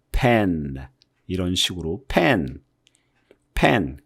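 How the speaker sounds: pen with the vowel spread sideways; pen with the ending stretched. Shown as a demonstration. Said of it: "옆으로 쓰면서 소리를 만드는". (옆으로 펴서 내는 pen)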